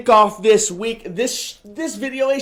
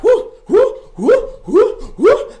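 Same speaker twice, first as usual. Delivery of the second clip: whooping; 13 semitones higher, 4 dB louder than usual. Real, not acted. Cheering during exercise.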